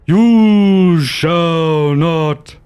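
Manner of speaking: slow drawn-out growled yell; low growl yell. Acted. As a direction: growl it out slowly like a wizard. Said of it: "in a low growl voice, I yell".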